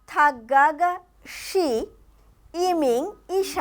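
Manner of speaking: 是 set off by pauses; stress on 是. Shown as a demonstration. Co-teacher saying how we would read it, stressing 是. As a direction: separate 是 out as the key word. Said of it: "তাহলে কি বলবো?".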